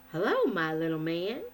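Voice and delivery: lightly voiced cheery shepherd; cheerful. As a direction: greet the little boy kindly. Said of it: "he said cheerfully".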